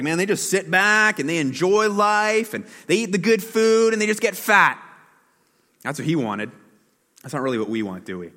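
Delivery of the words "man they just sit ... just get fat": envious longing. Retold or imitated. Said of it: "He's like".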